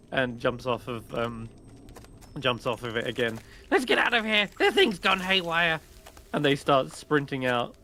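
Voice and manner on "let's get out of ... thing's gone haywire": high, loud panicked goblin; fleeing goblin. Acted. Goblins shouting to flee the berserk guardian. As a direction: yell as you run away.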